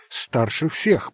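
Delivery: plain reading voice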